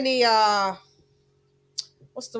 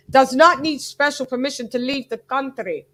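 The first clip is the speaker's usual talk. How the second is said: off-target attempt at a Ukrainian accent; Klimas; 2 semitones higher, 4 dB louder than usual. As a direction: carry on a shaky imitation of a Ukrainian accent. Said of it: "that's not his accent".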